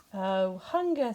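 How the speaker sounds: lightly voiced dreamy bear. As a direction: linger on it like thinking of breakfast.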